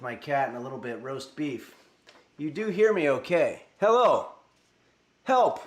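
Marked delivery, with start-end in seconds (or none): 3.8-4.3 loud hello with a strong H; loud mic test. Shown as a demonstration. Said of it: "You heard the H in hello". 5.2-5.6 loud help, strong H and P; loud mic test. Shown as a demonstration. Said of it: "the H in hello and in help".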